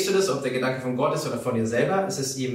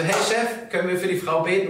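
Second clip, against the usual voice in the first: lightly voiced bright hey Chef; high, cheery call to the boss; 5 semitones higher than usual. Preacher calls the bakery boss, lightly voiced and higher.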